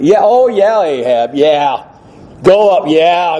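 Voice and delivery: sarcastic yeah-sure tone; mock agreement. Shown as a demonstration. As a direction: humour him with hollow, put-on agreement. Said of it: "if we had heard the tone".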